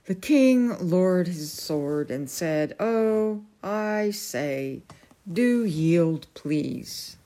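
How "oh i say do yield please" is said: drawn-out, polite entreaty; pleading. A narrator's reading. King lowering his sword to the knight, pleading. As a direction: coax a stubborn foe to give in.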